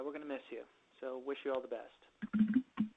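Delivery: normal talking voice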